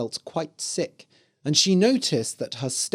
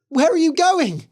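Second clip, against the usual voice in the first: high, louder desperate plea; crying girl; 14 semitones higher, 6 dB louder than usual. Acted. Girl begging her leaving husband, high and tearful. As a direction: call after him in tears.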